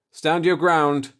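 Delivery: slow, loud, thick-tongued warning. Acted. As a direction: warn them slowly, half drunk. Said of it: "I warned the others thickly".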